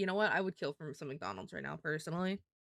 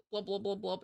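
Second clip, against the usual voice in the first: fish noises. Pretend. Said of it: "'cause I'm a fishy".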